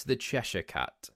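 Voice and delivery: Cheshire in Cheshire Cat with a "shuh" ending; British pronunciation. Shown as a demonstration. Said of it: "I say Cheshire".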